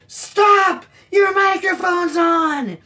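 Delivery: high, loud warning shout; urgent shout. Retold or imitated. Out of breath photographer warns Father Christmas, loud urgent shout. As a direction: yell it the moment you burst in. Bursting in to warn him.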